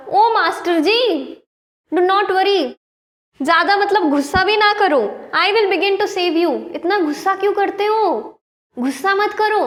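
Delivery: a mild, easy reassurance to the angry sultan; calm, soothing barber. Acted. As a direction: settle him down gently, no rush. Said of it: "बड़े आराम से बोल रहा".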